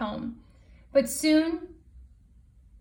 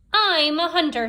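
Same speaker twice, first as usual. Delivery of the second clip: higher, louder proud Possum; Possum boasting; 5 semitones higher, 6 dB louder than usual. Acted. Possum volunteers to the gathering, boastful. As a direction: puff up like a boastful hunter. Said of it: "said Possum".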